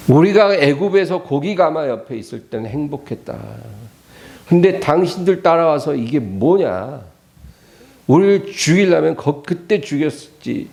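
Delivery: mock reproach; acted resentful complaint. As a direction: voice a crowd blaming its leaders. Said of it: "원망을".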